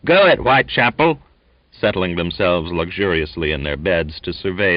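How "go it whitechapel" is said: high, loud cheering from a bunk; encouraging cry. A narrator's reading. Sailors cheering Donkin on, encouraging cry. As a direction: egg the fighter on. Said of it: "cried encouragingly".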